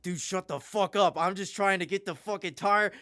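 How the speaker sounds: high, loud frustrated outburst; retold screaming. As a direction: re-enact yelling at a caller in a panic. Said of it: "I'm, like, screaming at him".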